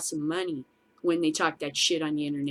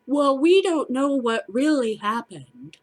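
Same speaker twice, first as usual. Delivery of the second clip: high, loud, slowed mimicry of careful racists; mock cautious bigot; 5 semitones higher, 5 dB louder than usual. Mocking online racists who now hedge, in a high loud put-on voice. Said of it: "Now they come out and go".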